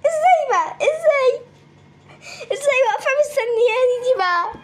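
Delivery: high panicked laughing cries; shrieking in disbelief, pitch way up; panicking gamer. Real, not acted. Gamer panics at waiting enemy.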